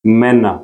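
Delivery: मैना with a fronted e sound; umlaut pronunciation. Shown as a demonstration. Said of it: "ये आवाज़ ऐसे होगी".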